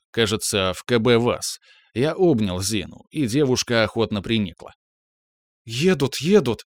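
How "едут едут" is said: радостно выкрикнуть, что едут; взволнованно, чуть выше обычного; радостный возглас. A narrator's reading. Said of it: "воскликнула Наташа". (радостное восклицание)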